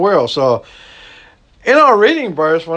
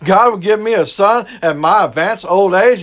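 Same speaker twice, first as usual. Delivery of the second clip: higher, scoffing disbelief; mock disbelief, pitched up; incredulous Sarah; 4 semitones higher than usual. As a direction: play Sarah laughing off God's promise. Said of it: "Sarah even thought it was laughable".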